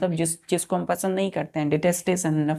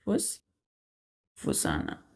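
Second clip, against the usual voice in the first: फुसफुसाना breathed very low and soft, drawn out slowly; whispered demo; 13 semitones lower, 8 dB quieter, much slower than usual. Shown as a demonstration. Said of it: "मतलब वो फुसफुसा रहा है". (फुसफुसाना को धीमी फुसफुसाहट में बोलें)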